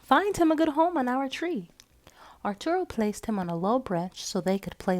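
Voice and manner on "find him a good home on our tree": whispering warmly to her grandson; whispered. A narrator's reading. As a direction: whisper it to the boy. Grandmother hands over ornament.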